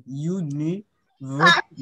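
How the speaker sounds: ইউনিভার্সিটি very slowly, split ইউ-নি-ভার; slow teaching breakdown of ইউনিভার্সিটি; syllable by syllable. Shown as a demonstration. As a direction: count out the parts of ইউনিভার্সিটি with gaps. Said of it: "দেখো, দুটো syllable হলো".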